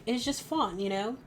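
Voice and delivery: put-on, amateur London accent; attempted British accent. Shown as a demonstration. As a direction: try a British accent, slipping in and out. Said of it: "how to do it in the accent".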